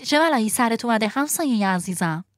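a lightly voiced worried marmot. A narrator's reading. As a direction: ask with mild concern. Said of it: "با نگرانی پرسید".

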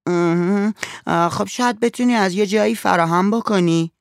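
put-on high, coaxing girl's voice. A narrator's reading. Girl coaxes the father to find fifty cents, high and coaxing. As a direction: wheedle the money out of him.

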